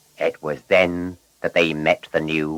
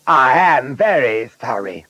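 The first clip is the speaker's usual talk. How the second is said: higher, louder contrite character voice; ashamed apology; 7 semitones higher, 5 dB louder than usual. A narrator's reading. Blunderbuss owning up after the crash, ashamed. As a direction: apologise as a chastened car. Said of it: "Blunderbuss felt very ashamed".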